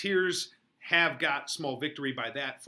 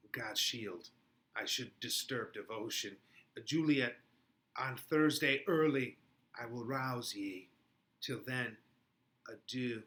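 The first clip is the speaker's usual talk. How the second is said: acted Shakespeare dialogue. Reading the scene's parts.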